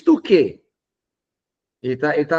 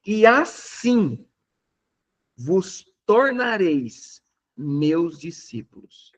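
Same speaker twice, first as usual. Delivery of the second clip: slow scripture reading; 3 semitones higher, much slower than usual. Shown as a demonstration. Reads his version slowly.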